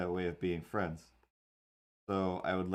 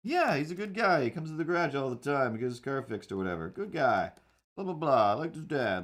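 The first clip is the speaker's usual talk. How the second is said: imitating dad; 5 semitones higher than usual. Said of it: "my dad was like".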